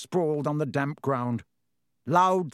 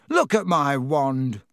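slow, trembling and louder; shaken, stunned and slow; shaky voice; 5 dB louder, slower than usual. Acted. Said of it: "said Ron in a shaky voice".

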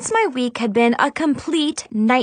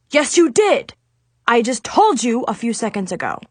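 irritated retort. Acted. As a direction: scold someone for forgetting. Irritated adviser scolds student.

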